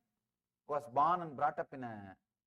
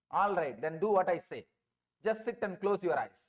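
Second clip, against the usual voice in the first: bossy thief; 6 dB louder than usual. Retold or imitated. Thief gives orders to seeker.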